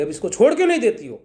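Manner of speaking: gopis rushing to beg the mother; pleading protest. Acted. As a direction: village women begging Yashoda to let the boy go. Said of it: "और कही".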